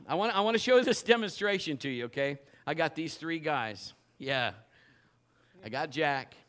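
ordinary talk

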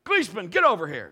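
loud coach's sideline call. Retold or imitated. Coach summoning a player from the sideline, calling out. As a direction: call the player over sharply.

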